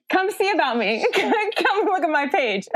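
slow, giggling plug; laughing. Real, not acted. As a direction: laugh while inviting them in. Laughing self-promotion.

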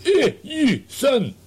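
high, loud, slow Scottish menace; mock Scottish threat. Twitter troll threatening the podcaster, mock Scottish accent. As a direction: ham up a Glasgow hard man threatening.

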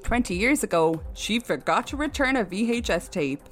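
news read. Acted. Reads a news story aloud.

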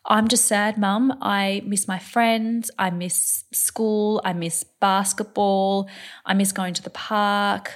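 a hint of a tearful child's voice; imitating sad child. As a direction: mimic a six-year-old missing everything. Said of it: "She's like".

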